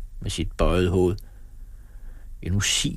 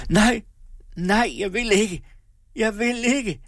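high, wailing defiant refusal; desperate refusal, pitched right up; 14 semitones higher than usual. A narrator's reading. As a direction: cry out in utter defiance. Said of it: "i en uendelig trods".

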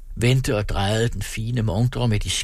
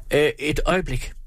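a sudden exclaim, a touch higher; 6 semitones higher than usual. A narrator's reading. Shop clerk stopping the leaving couple, mild exclaim. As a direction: call out to stop them, mildly urgent. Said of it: "udbrød ekspedienten".

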